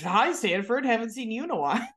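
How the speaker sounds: high, quick hammed-up hello; mock gushing greeting. Acted greeting to Stanford.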